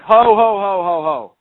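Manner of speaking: retold startled cry as the officer grabs the window; alarmed exclamation. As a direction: recoil with a sharp whoa. Reacts to officer grabbing window.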